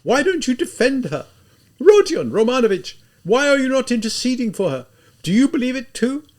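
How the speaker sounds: high, tearful desperate pleading; weeping shout. Acted. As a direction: sob and shout at once in despair. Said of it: "in this hoarsely shouting voice, in this violent weeping".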